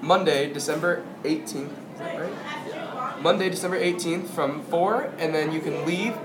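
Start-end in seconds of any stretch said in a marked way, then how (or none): 1.9-3.2 unsure question. Real, not acted. Unsure about the date.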